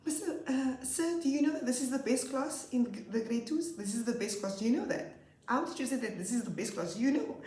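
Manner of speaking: put-on high, eager child voices; proud children. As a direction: boast to the coordinator. Pupils boasting to coordinator.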